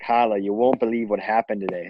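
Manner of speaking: lightly imitated Boston accent; Bostonian grandma. Grandma visiting with news, light Boston accent. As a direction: drop the R like a Bostonian. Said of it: "my grandma will be like".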